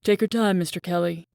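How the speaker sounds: gently indulgent teacher to a latecomer; lightly voiced kindly professor. A narrator's reading. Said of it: "says kindly".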